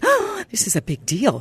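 lightly acted awe at a big moment; awed newcomer. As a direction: gasp and gush like a wide-eyed new cast member. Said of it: "from everything was like".

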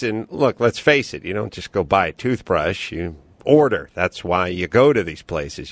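easy host-read ad. Acted. Host reading a sponsor ad to listeners. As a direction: pitch the sponsor casually.

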